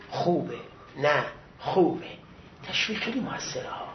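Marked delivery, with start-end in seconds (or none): 0.1-2.1 low, slow imitated praise; approving teacher. Teacher encouraging his student with a gift, low slow approval. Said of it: "تشویقی به ما داد".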